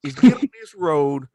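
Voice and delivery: slow, easy drawn-out directions; laid-back directions. Retold or imitated. Stranger with a forty giving directions, slow and easy. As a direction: talk him through it calmly.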